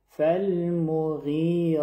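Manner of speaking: فالمغیرا with a full heavy ra drawn out two beats; فالمغیرا ending in a long full ra; heavy stretched ra. Shown as a demonstration. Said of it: "حرف را پر و اندازهٔ دو حرکت بالا کش شود".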